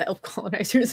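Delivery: laughing through the words; giggling mid-phrase. Real, not acted. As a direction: chuckle out the joke. Joke about the elves.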